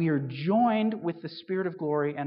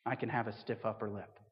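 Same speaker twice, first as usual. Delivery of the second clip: low, soft understated agreement; lightly voiced reserved Brits; 7 semitones lower, 9 dB quieter than usual. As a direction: agree quietly and low, stiff upper lip. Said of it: "all the Brits in the room would go".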